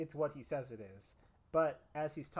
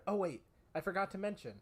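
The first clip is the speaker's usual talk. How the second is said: sarcastic; 3 semitones higher, faster than usual. Shown as a demonstration. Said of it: "I am saying this with a sarcastic inflection".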